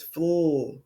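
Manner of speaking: "fl" as a held blend, f sliding into l; blended sound. Shown as a demonstration. Teacher showing the first sound, blend drawn out. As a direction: hold the blend "fl" without finishing the word. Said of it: "the first sound we hear".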